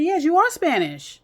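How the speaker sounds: retold slow, emphatic insistence; retold firm insistence. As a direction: lay it down slowly and firmly. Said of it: "I said".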